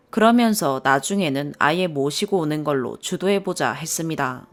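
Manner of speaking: plain reading voice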